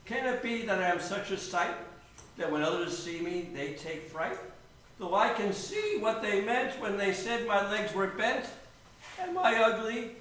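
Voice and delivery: soft, wistful self-questioning; subdued, hurt, halting musing; forlorn little bird. Acted. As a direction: wonder sadly at your own reflection. Rejected bird ponders sadly at his reflection.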